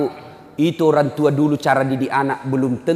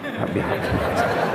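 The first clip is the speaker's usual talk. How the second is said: gruff father's prayer; 5 semitones higher, 5 dB quieter than usual. Pretend. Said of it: "kalau bapaknya".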